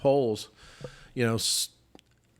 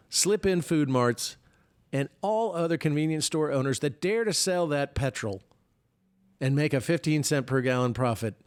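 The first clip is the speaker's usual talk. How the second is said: a hint of the old president, pitched up; mock Biden tweet; 3 semitones higher than usual. Host reading an invented presidential tweet, lightly mocking. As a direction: read the tweet as a lightly voiced old man. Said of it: "so Joe Biden sends out this tweet".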